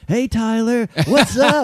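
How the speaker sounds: high, bright-voiced neighbor hello; sing-song hello from the elevator lady; mock lady greeting. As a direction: chirp it up high like a cheery neighbor. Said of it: "she's like".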